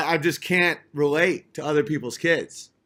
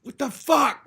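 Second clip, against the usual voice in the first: high, incredulous what the fuck; lightly hammed-up baffled outburst; mock shock; 9 semitones higher, slower than usual. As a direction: play up the disbelief. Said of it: "and I was like".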